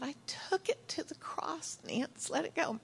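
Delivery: gentle whisper. Retold or imitated. Jesus speaking gently to her.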